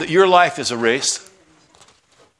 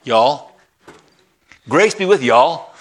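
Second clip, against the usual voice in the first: Southern accent, "y'all" drawn out as one syllable; a touch of Southern drawl on "y'all"; 3 dB louder, slower than usual. Shown as a demonstration. Pastor shows the congregation a Southern greeting, light Southern accent. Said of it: "the greeting from the South".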